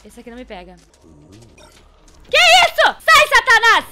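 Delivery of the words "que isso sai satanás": panicked yell. Real, not acted. Monster appears in game.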